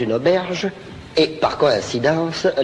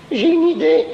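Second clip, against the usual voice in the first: eager idea; 12 semitones higher, 3 dB louder than usual. Acted. Character gets idea, high.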